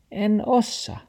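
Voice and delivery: high-pitched excuse; taxi character. A narrator's reading. Taxi makes excuses to grandfather, high-pitched. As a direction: wriggle out in a high little voice.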